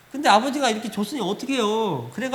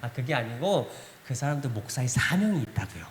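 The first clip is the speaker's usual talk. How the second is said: calm explaining; 8 semitones lower, 5 dB quieter than usual. Retold or imitated. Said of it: "제가 설명해드렸어요".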